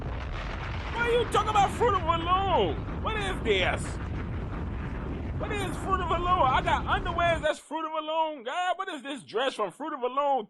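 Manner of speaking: put-on high, taunting mean-girl voice; mocking schoolgirl voice. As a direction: sneer at the dress like a snotty classmate. Voicing classmates mocking the dress.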